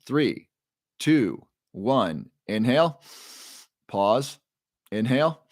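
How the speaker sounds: measured breathing-coach cues with long pauses; guided breathing. Shown as a demonstration. Coach leading viewers through a bedtime breathing exercise, guided breathing.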